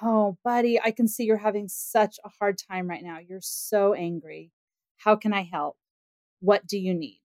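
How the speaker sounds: put-on soft, tender voice to an angry child; a calm parent reassuring her upset son; gentle soothing. Shown as a demonstration. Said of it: "the way I might respond from that approach is to say".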